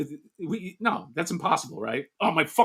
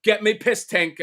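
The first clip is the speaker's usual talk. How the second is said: bad British accent; 5 semitones higher than usual. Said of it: "I don't do accents that well".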